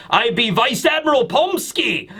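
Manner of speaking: put-on Russian accent. Recapper introduces Vice Admiral Pomsky, mock Russian accent. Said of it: "I'm assuming it's with a Russian accent".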